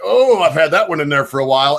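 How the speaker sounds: a hint of a silly gassy-guy voice; mocking gassy guys. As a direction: poke fun at them with a mild put-on voice. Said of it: "he is mocking these people".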